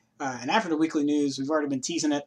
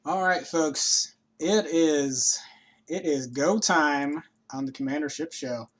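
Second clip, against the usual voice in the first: show host intro; 3 dB louder, slower than usual. Acted.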